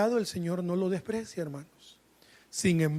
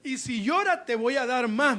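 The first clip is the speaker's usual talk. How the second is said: higher-pitched mock scolding; aunt's mock threat; 5 semitones higher than usual. Preacher quoting the aunt who spanked, mock threatening. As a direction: threaten like a stern aunt, playfully exaggerated. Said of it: "me decía mi tía".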